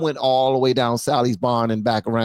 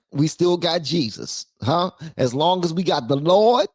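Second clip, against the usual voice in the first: mock preacher; 4 semitones higher than usual. Mock preaching, laughing throughout.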